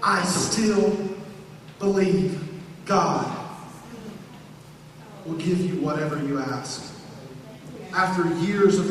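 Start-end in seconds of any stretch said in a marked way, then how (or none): 0.0-6.8 fading to hush. Acted. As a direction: let the faith settle into a hush. Martha quote falling to hush.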